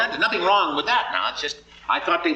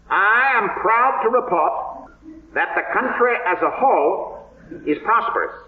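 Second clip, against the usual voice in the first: Coolidge speech voice; 3 semitones higher than usual. Pretend. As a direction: barely move your lips, measured presidential address. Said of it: "Notice I'm not moving my lips very much".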